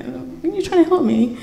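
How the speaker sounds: soft, small question; understated, quiet confrontation; meek retold question. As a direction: ask it softly. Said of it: "I was like".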